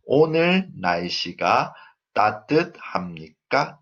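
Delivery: "따뜻합니까" ends with a lift; rising question intonation. Shown as a demonstration. Teacher models a Korean yes-no question, rising on "따뜻합니까". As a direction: raise the final syllable of "따뜻합니까". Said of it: "The intonation goes up".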